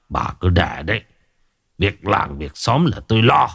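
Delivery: put-on lightly slurred, drunk bossy brush-off; slurred swagger. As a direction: wave her off, tipsy and self-important. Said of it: "giọng lè nhè ra oai".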